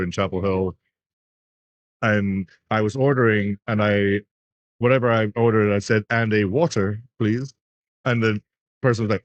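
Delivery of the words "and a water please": light posh English pronunciation of "water"; retold posh English drive-through order; posh English accent. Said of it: "very, very, like, posh English accent".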